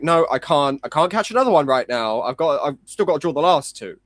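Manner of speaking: playfully exasperated protest; mock protest. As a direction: act out a flustered refusal. Acted protest to himself in story.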